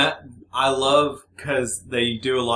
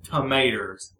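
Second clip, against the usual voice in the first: "Tomatoes" with a put-on southern ending, like "tuh-maters"; mock southern "Tomatoes"; faked southern accent; slower than usual. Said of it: "tell when people fake it".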